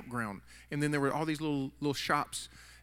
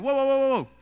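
high, loud whoa to halt him; a hammed-up stranger cutting him off; high and louder whoas; stopping someone; 10 semitones higher, 9 dB louder, faster than usual. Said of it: "He said".

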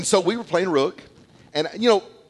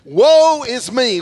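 overwhelmed cry; 9 semitones higher, 8 dB louder, much slower than usual. Retold or imitated. Isaiah overwhelmed before the Lord.

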